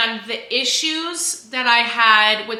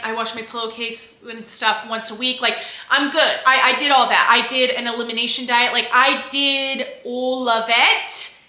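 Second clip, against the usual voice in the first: Northern English accent. Real, not acted. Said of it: "I don't know why I do this, like, Northern English accent".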